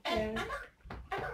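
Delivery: put-on insistent little-kid call; child pestering mother. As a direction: nag for mother's attention, tugging at her. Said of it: "Elle tire sur la robe".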